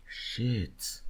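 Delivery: defeated whisper after a long sigh. Real, not acted. Stuck between two songs, sighs a whispered curse. Sighs over a hard pick.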